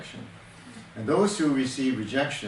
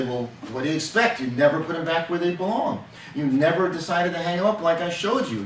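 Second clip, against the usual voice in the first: higher, louder, needling put-down; sarcastic scolding; 4 semitones higher, 3 dB louder than usual. Shown as a demonstration. Husband scolds wife over lost keys, sarcastic. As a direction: rub it in, mock-patient. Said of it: "can you possibly demonstrate an example of the tone of voice".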